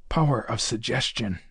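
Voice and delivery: low, soft aside under the breath; whispered. A narrator's reading. McGuire teasing the captain, a soft low aside. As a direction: murmur it to the captain. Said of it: "he whispered".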